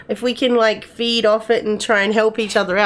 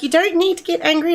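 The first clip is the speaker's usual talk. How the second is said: imitating daughter; 9 semitones higher than usual. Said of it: "And she's like".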